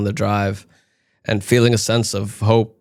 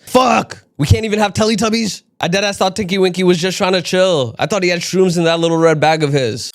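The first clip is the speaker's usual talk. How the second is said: much higher, loud outraged rant; outraged disbelief; 8 semitones higher, 3 dB louder than usual. Acted. Comic telling the crowd, betrayed, in a high outraged squeal. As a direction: whine in mock betrayal at the ruined childhood.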